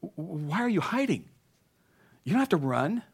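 father's heart crying out. Acted. Preacher voicing God as a father pleading with Adam. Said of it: "this father's heart crying out".

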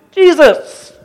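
sudden high, loud cry of Jesus!; panicked cry for help. Retold or imitated. Congregant mocking a panic prayer, crying Jesus! high and loud. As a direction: yelp the name out like a last resort. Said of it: "I'll use Jesus for the big guns".

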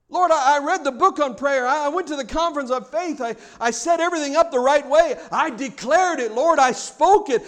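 loud, insistent mock rant to God; acted aggrieved prayer, easing down at the end; indignant complaint. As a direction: pile up grievances, pushing the voice.

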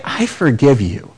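the right way to forgive; sincere, weighty forgiveness. Shown as a demonstration. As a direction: say it like it costs you something.

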